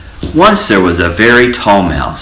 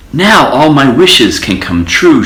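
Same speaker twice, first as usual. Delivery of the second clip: high, eager little mouse voice; a mouse thrilled by her find; excited cry; 7 semitones higher, 3 dB louder than usual. A narrator's reading. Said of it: "she cried".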